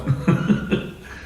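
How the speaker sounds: short laugh. Real, not acted. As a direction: chuckle under the breath. Laughs after his quoted remark.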